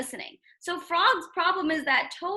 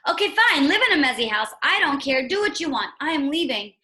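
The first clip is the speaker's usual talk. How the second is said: louder, fed-up, storming off; angry brush-off; 5 dB louder than usual. Pretend. Teacher voicing a pretend angry Frog, louder. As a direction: give up on him angrily. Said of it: "But if he reacted like".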